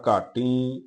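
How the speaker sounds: ਘਾਟੀ with a nasal long ee; nasalised ending. Shown as a demonstration. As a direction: end ਘਾਟੀ humming through the nose on the final vowel. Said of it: "ਟੀ ਤੇ ਬਿੰਦੀ ਹੈ".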